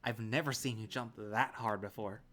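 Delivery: loud, amused exclamation after laughing; amused teasing. Acted. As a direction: tease a friend you just scared. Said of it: "but he grabs me up, laughing".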